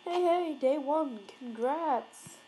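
loud bright hey hey; cheerful loud welcome; cheery greeting. Retold or imitated. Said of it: "what if he was just like".

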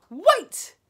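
high, urgent shout. A narrator's reading. Witch halting the others, shouting high. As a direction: shout to stop everyone. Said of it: "she shouted again".

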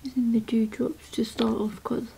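soft whispered ASMR; whispering. Acted. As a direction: whisper it close to the mic.

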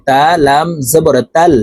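"তাল" as one syllable, the ta catching the lam; joined sukun letter. Shown as a demonstration. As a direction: spell it out, closing "তাল" firmly on the l. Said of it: "তা এই জজমওয়ালা লামকে ধরবে". ("তাল" এক উচ্চারণে লাম ধরে)

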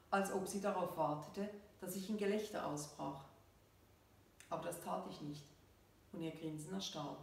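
measured reading with falling sentence ends; story narration. A narrator's reading. Author reads her story to listeners, measured narration. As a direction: read the story out evenly, pausing between phrases.

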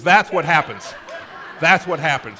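loud, emphatic parent lecture; acted cautionary scolding; mock parental warning. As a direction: drive the lesson home to the child, loudly. Voiced parent warning child about madman.

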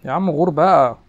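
loud, exasperated, waving him off; fed-up shout. Real, not acted. Player fed up with a cheating opponent, loud annoyed shout. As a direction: snap at the opponent to get lost.

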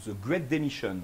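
English term in a Spanish accent. Real, not acted. Speaker naming an American trend to the audience, Spanish accent. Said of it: "je le dis avec mon accent espagnol".

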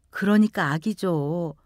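low, slow soothing explanation; calm reassurance. Acted. Sister-in-law reassuring the frantic young mother, calm and gentle.

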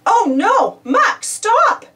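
loud, high alarmed shout; desperate to stop him; yelled. A narrator's reading. Bob yelling after Muck carrying Pilchard off, alarmed. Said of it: "he yelled".

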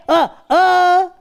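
high startled aa aa; shocked gasp. Acted. Karagöz shocked to find himself a seahorse. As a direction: gasp at your own new body.

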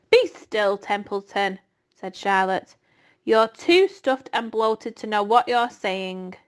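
a hint of a firm spider scolding; lightly stern Charlotte. Charlotte tells bloated Templeton to be still, firm. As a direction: hush the rat firmly.

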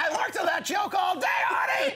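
frustrated yell at Artie; exasperated shout. Real, not acted. Complaining his joke was cut.

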